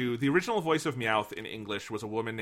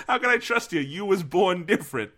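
higher cartoon cat voice again; lightly voiced Meowth; a hint of Meowth, pitched up; 5 semitones higher than usual. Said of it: "that's like racism in".

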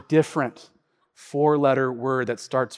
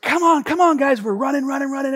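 urging family to run; 9 semitones higher, faster than usual. Retold or imitated. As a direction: hurry them along as you run. Family racing for the flight.

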